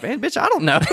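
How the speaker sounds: high-pitched laughing reply. Real, not acted. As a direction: laugh through the line.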